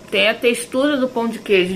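talking with a mouth full. Real, not acted. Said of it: "Falar de boca cheia".

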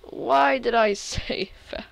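laughing disbelief. Real, not acted. Still laughing at himself.

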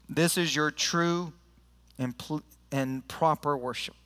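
measured, emphatic Bible reading; scripture reading. Real, not acted. Pastor reading Romans to the church, deliberate scripture reading. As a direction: read it out to the whole congregation, phrase by phrase.

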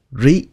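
rí kept short, breath stopped at the end. Shown as a demonstration. Teacher shows learners the syllable, short rí. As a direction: cut rí off, don't drag the vowel. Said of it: "Các bạn nói cái chữ rí ngắn thôi".

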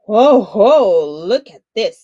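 put-on a boy bragging out loud to sleeping sharks; loud boastful call. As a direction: shout it out over the water. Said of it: "he spoke in a loud voice".

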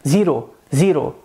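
"Zero" with a tapped, rolled Indian R; Indian English accent. Shown as a demonstration. Teacher showing how Indians say it, Indian accent. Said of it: "Veja como eles dizem zero".

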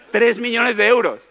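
exclaimed. Shown as a demonstration. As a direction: blurt the number out in disbelief. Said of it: "era el tema".

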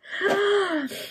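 high gasp for air; laughing gasp. Real, not acted. Reader recovers from laughing, high gasp. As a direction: catch your breath after laughing.

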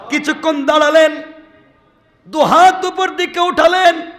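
high, loud wailing sermon peak, Allah drawn out long; tearful sermon cry. Acted. Preacher voicing the Prophet crying out to Allah, loud and high. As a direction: cry it out to the heavens.

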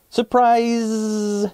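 high, excited fly surprise; excited shout. Acted. Fly family surprises Fly Guy, high excited shout. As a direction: shout it out like a party.

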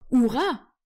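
high, loud squeaky hurrah; a tiny creature shouting for joy; little mouse cheering for battle; tiny high-voiced cheer. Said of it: "hurla une voix très aiguë et très menue".

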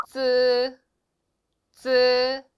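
쯔 loud, tense and unaspirated; Chinese z sound. Shown as a demonstration. Teacher loudly models the Chinese z for students. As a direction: snap out 쯔 firmly. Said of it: "쯔 발음이 나요".

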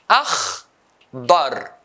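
"Akhdar" split into akh and dar, long pause between; syllable by syllable. Shown as a demonstration. Teacher dividing a colour word, syllable by syllable. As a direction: break "Akhdar" into two isolated beats. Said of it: "two syllables".

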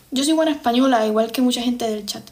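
put-on Spanish accent; imitated accent. Shown as a demonstration. Imitating accents for the chat. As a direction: try on a regional Spanish accent. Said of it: "estoy imitando acentos ahora".

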